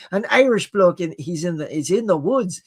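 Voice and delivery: lightly put-on Irish accent. Shown as a demonstration. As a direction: have a careful go at Irish. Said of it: "about to get the wrong accent there".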